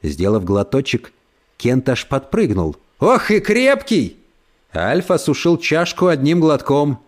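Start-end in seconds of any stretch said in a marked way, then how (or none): 3.0-4.2 surprised. Acted. Кент поражён крепостью кофе.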